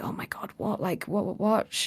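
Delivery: hushed, shocked whisper; acted whisper of disbelief. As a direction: whisper it like stunned onlookers.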